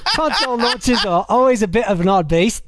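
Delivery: Australian attempt sliding into British; botched Aussie accent, British-sounding. Host reads listener's message, mock Aussie turning British. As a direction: try Aussie and land on British. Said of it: "like, British".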